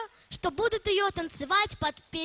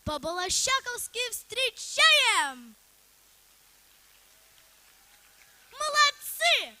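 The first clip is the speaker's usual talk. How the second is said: calling out; 4 semitones higher, 3 dB louder, slower than usual. Real, not acted. Compere calling out to crowd.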